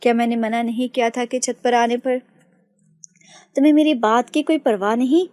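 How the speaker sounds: put-on older brother scolds his sister for coming up; angry scolding. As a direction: builds from stern to a loud angry demand. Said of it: "गुस्से से कहा".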